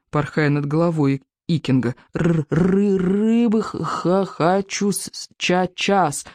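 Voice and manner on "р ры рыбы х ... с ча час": stuttering, drawn-out dragon demand; higher, slow, halting creature voice; squealing little dragon. A narrator's reading. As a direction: stammer on every word like a greedy hatchling. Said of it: "пищал Беззубик".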